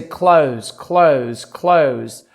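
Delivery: CLOTHES slowly repeated with a broad Australian vowel; Australian-accented CLOTHES, drawn out each time. Shown as a demonstration. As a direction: drill the word "clothes" in an Aussie accent. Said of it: "getting into a little bit of my Australian".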